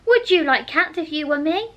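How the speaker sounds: indignant squeak at the very idea; shrill, passionate. A narrator's reading. The mouse, offended, answers Alice shrill and passionate. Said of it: "shrill, passionate voice".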